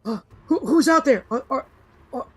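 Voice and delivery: high, stammering, scared; a terrified villager calling through the door; frightened voice. Acted. Hidden villager asks if they are gone, frightened. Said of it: "They say".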